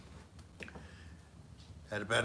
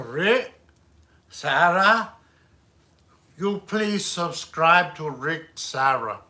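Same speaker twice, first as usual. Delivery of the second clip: halting, faked Asian accent; hesitant go at a generic Asian accent; attempted Asian accent; 4 dB louder than usual. Shown as a demonstration. Streamer asking for subscribers on request, faked Asian accent. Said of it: "Do an Asian".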